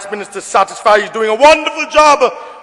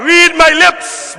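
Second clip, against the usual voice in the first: slow, spelled-out read my lips; savoring the line; slow taunt; 4 semitones higher, much slower than usual. Real, not acted. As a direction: drag each word at the opponents. Taunting the opposition.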